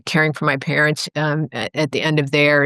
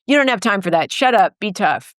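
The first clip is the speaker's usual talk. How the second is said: higher and sharper, slowing on the last words; harsh inner critic; 5 semitones higher than usual. Retold or imitated. The bullying inner voice telling her to push on, sharp and stern. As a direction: bark it like a drill sergeant in your head. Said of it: "the other voice that's like".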